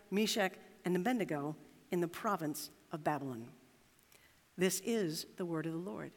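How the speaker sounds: measured, solemn reading of scripture. Acted. Pastor reading scripture to the congregation, measured and solemn. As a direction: read the lesson to the congregation.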